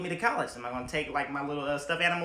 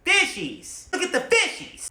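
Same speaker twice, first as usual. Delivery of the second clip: loud laughing coo; playful laughing voice; giggly fishies; 8 dB louder than usual. Retold or imitated. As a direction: laugh at the fish. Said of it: "just be like".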